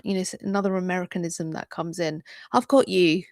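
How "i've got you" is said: light London Cockney twang. Shown as a demonstration. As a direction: say it like a cheeky Cockney. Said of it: "I just went a bit London Cockney".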